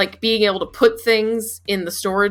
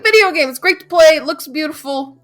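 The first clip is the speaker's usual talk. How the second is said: much higher, emphatic praise; high-pitched insistence; 8 semitones higher than usual. Retold or imitated. Host defending the game to a friend, high-pitched insistence.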